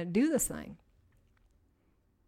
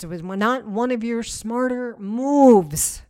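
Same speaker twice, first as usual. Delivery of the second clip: wry self-teasing; 8 dB louder, slower than usual. Shown as a demonstration. Teasing herself while forgiving.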